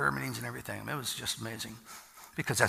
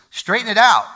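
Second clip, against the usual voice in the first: loud, much higher, barked order; forceful command; 8 semitones higher, 13 dB louder than usual. Acted. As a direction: push the command out hard. Preacher voicing scripture command.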